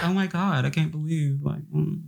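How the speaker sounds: teasing, put-on disbelief; fake concern. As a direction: parody someone feigning shock. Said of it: "You sound so, like, fake".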